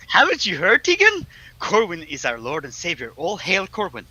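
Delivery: high, loud herald-like announcement; mock proclamation. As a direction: proclaim it with playful zeal. Reads chat as mock proclamation.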